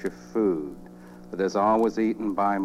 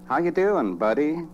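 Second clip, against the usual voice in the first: high, loud chirpy greeting; most cheerful voice; 8 semitones higher, 5 dB louder than usual. Acted. Upbeat friend phones someone in the darkest pits, cheerful voice. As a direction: greet a pal with exaggerated cheer. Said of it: "In the most cheerful voice".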